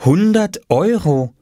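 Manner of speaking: slow, high wondering read-out; amazed. A narrator's reading. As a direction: read it off slowly in astonishment. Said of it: "und staunte". (staunend, langsam abgelesen)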